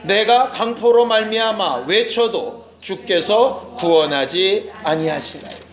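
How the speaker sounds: slow, measured scripture reading aloud; leading the church in unison reading; slow congregational reading. Shown as a demonstration. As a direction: read it together, slowly and evenly. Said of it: "시작".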